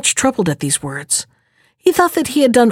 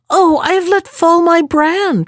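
higher, mock-dismayed princess; a light little cry of false dismay; 8 semitones higher than usual. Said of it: "cried she".

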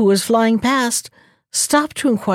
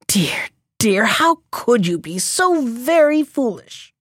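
whispered dismay; 3 semitones higher than usual. Acted. Crow laments.

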